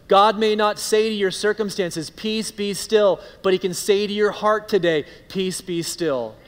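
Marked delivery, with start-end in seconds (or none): 2.1-3.2 slow, firm "Peace, be still" with a falling close on "still"; a stern, deliberate "Peace, be still"; commanding rebuke. Acted. Spoken to the circumstances. 5.3-6.4 a tender, hushed "Peace, be still"; gentle reassurance. Acted. Spoken gently to the heart.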